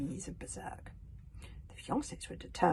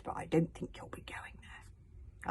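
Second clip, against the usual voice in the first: gritted-teeth hiss; 6 dB quieter, slower than usual. Acted. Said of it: "replied Hiccup through gritted teeth".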